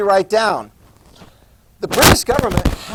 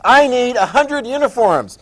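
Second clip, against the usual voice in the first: higher, louder, slow play-acted order; acted official request; 6 semitones higher, 5 dB louder than usual. British government to the uniform store, emphatic request. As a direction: place a big order, slowly and emphatically.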